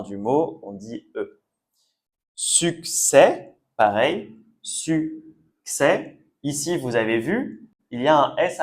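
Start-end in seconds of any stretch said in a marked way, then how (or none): 2.3-3.6 "Succès" drawn out, ending on open "è"; silent final S. Shown as a demonstration. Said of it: "donc on supprime le S". 4.6-6.2 "succès" split into su-ccès with a gap; silent final S. Shown as a demonstration. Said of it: "donc on supprime le S".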